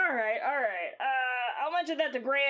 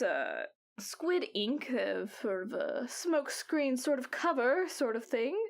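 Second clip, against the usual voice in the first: put-on old lady voice. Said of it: "old lady voice".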